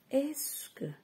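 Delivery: "Est-ce que" said high and bright; highlighted phrase. Shown as a demonstration. Teacher singling out "Est-ce que" for the class, high. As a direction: lift "Est-ce que" to point it out. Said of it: "Donc on a est-ce que".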